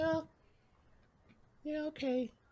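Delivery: hushed, downcast, very soft, low and sad. A character agrees after choosing the longbow, sounding sad. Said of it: "Why do you sound so sad?".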